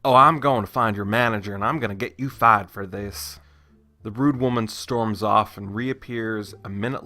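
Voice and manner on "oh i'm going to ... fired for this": louder, lightly put-on southern accent; fake southern accent. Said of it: "my fake southern accent".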